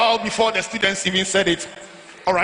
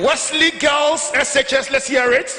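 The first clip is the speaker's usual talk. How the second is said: hype call-out; 4 semitones higher than usual. Real, not acted. MC calling out to crowd.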